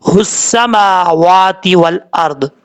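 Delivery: slow chanted recitation; tajweed chanting; Quranic recitation. Acted. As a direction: chant the verse slowly. Reciting the verse.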